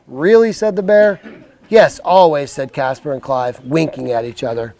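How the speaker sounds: slow, clear storybook voice; reading to children. Acted. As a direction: read it like a bedtime book. Reads picture book to kids.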